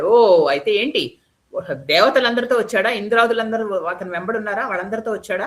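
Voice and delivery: a king doubting the news, raising his voice; demanding questions. A narrator's reading. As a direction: press the messenger hard. Demon king questions messenger.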